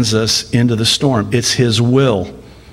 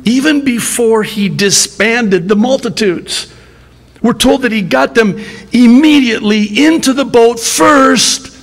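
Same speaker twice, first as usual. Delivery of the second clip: much higher, louder impassioned preaching; fervent preaching; 12 semitones higher, 4 dB louder than usual. Real, not acted. Preacher stressing that Jesus knowingly sent them into the storm, impassioned. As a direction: preach it with rising urgency. Preacher builds to high fervor.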